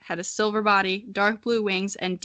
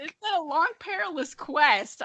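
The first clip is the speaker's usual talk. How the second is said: mock epic; 8 semitones higher than usual.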